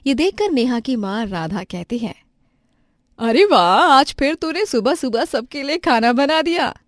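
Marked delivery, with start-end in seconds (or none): 3.2-6.8 loud happy exclamation; mother praising her daughter's breakfast; delighted mother. Acted. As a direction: cheer her on.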